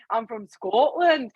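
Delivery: put-on slow, amateur Scottish accent; attempted Scottish accent. Host showing her failed attempt to the call, drawn-out Scottish accent. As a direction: try on a Scottish accent, stretching the words. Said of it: "trying to do a Scottish accent".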